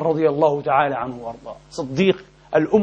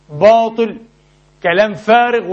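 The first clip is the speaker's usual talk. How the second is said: scornful dismissal; 5 semitones higher, 4 dB louder, slower than usual. Real, not acted. Dismissing critics.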